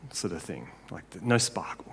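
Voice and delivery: whispered aside. Real, not acted. Aside about dull Leah.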